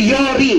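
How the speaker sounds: Yori with an o in the first syllable; wrong name pronunciation. Shown as a demonstration. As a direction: say Yori as YOH-ree, the rejected version. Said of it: "Hindi Yori".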